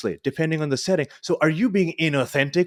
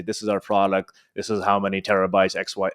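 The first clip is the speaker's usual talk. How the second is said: matter-of-fact; 7 semitones lower than usual. Retold or imitated. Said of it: "a very matter-of-fact way of speaking".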